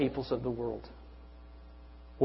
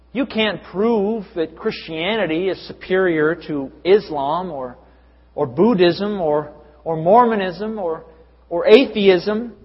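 higher, louder, slowing through the list; mock relativist quote; 3 semitones higher, 4 dB louder, slower than usual. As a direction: drag out each religion mockingly. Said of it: "they say".

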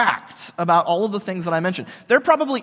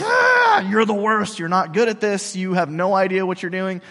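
mock outraged retort; 5 dB louder than usual. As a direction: bark back like an offended churchgoer. Gentile Christian retorting in story.

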